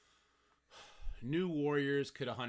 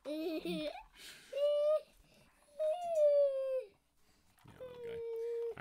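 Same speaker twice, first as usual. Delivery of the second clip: tender coo; 5 dB louder, much slower than usual. Real, not acted. Tender high coo to toddler.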